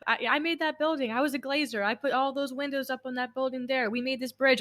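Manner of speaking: dad boasting about his buildings in a mock country accent. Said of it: "he doesn't have a country accent. I don't know why I'm giving him one".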